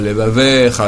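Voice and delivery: Levavecha with a long e; long vowel. Shown as a demonstration. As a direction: hold the e in Levavecha. (Levavecha, e long)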